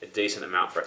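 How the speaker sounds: breathless after running downstairs; slightly winded, catching breath between phrases. Real, not acted. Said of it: "I'm out of breath because I'm still kinda sick and I just ran downstairs".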